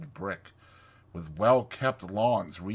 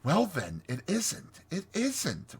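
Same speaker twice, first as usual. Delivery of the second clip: high, soothing little voice; 9 semitones higher than usual. A narrator's reading. Mole placates indignant Rat, soothing. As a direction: give in soothingly, pitched up. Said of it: "replied the Mole soothingly".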